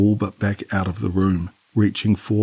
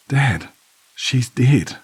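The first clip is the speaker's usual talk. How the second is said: higher, louder, choking out the words; choked out; 5 semitones higher, 3 dB louder, much slower than usual. A narrator's reading. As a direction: force it out through a tight throat. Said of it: "I choked out".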